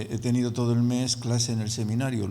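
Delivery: ordinary talk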